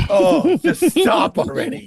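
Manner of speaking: mild mock exasperation at the pointing dad; exasperated. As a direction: drag it out, fed up. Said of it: "I'm just like".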